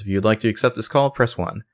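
quick automated phone prompt; lightly voiced recorded robot. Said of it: "the robot says".

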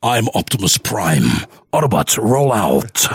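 heroic robot leader, lightly voiced; a hint of a commanding robot leader; Optimus Prime. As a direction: give a measured rallying command. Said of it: "I just know Optimus Prime's voice".

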